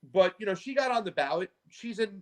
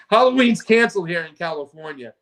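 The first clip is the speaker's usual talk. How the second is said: laughing; 7 dB louder than usual. Real, not acted. Laughing at his own joke.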